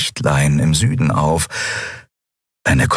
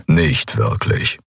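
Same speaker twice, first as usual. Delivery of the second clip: much lower gruff growl; 8 semitones lower, slower than usual. A narrator's reading. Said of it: "knurrte der Skrilla". (tiefes Knurren)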